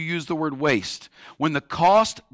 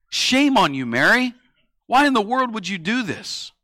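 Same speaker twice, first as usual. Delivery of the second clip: indignant telling-off, slightly raised; scolding; 4 semitones higher than usual. Acted. Disciples scolding Mary for what she did, mildly indignant. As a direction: scold her with mild mock outrage. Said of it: "begin to scold Mary".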